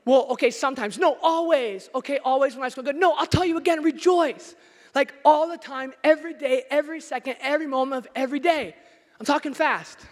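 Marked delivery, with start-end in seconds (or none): 2.9-4.5 higher and louder insistence; emphatic shout. Acted. Preacher shouting Paul's insistence at the congregation. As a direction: cut them off and insist. Mock back-and-forth with Paul.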